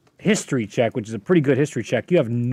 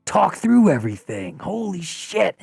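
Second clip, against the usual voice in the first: put-on overjoyed old friend; 3 semitones higher than usual. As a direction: pitch it way up, stunned and delighted. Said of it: "he sits down right next to you and he goes".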